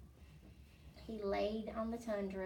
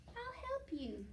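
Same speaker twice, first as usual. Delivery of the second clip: 1 gentle call; 7 semitones higher, 4 dB quieter than usual. Acted. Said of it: "she called".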